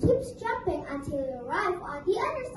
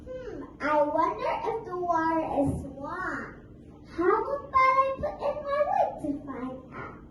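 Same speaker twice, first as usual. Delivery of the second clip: sly Mouse Deer. Acted. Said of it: "he said out loud".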